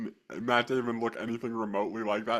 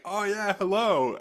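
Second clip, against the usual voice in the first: a higher, lightly voiced trucker hello; trucker's easy hello; 7 semitones higher than usual. Trucker replies with a higher, casual hello. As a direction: answer like it's obvious. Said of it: "And the guy's like".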